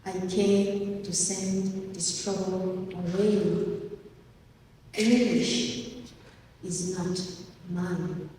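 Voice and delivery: slow, deliberate verse with long pauses; poem reading. Acted. Poet reciting a poem about their accent, slow and measured. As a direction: recite it in short, weighted phrases.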